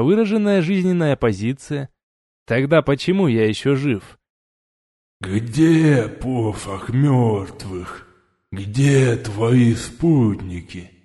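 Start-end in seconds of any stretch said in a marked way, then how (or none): 5.2-10.9 slow, low lisping growl of rising anger. A narrator's reading. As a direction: growl it out with a slushy lisp. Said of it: "прорычал начинающий выходить из себя Шепелявый".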